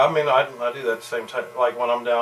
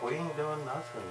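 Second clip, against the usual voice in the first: higher, softer mock Southern twang; twangy Southern accent; 4 semitones higher, 9 dB quieter than usual. Kids answering their father, imitated Southern twang. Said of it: "It's so twangy".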